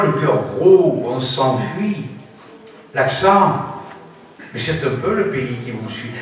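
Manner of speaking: recited verse with dramatic pauses; a poem recited aloud with feeling and pauses; poem recitation. Acted. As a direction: declaim the poem with pride in the accent. Recites Zamacoïs poem on accents.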